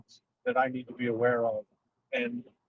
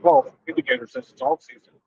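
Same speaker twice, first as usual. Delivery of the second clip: much higher, mock-puzzled trader; 9 dB louder than usual. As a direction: squeak it out like a baffled newbie. Mocking confused traders' question.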